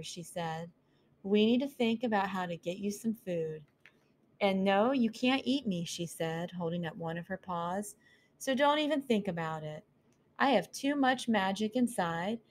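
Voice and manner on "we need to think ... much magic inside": put-on a curious young mouse asking; curious mouse girl. Mouse bargains with owl.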